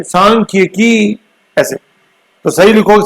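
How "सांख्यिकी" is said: सांख्यिकी said slowly as सां-ख्यि-की; teacher modelling सांख्यिकी slowly; sounding out a word. Shown as a demonstration. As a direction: break सांख्यिकी into its syllables slowly. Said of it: "सही उच्चारण से".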